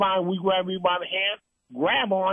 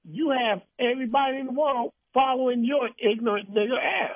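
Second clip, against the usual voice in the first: outraged climb; 7 semitones higher than usual. Real, not acted. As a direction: pitch soaring much higher on ass. Rising outrage.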